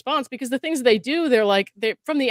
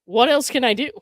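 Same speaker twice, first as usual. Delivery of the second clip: inner cry; 3 semitones higher, 5 dB louder than usual. Retold or imitated. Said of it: "your brain's kinda like".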